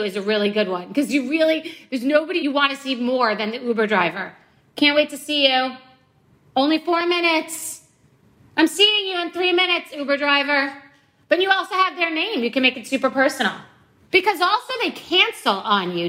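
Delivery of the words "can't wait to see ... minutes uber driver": "Can't wait to see you" said high and eager, sugary; gushing sweet talk. Retold or imitated. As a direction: fawn over the Uber driver. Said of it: "buttering him up".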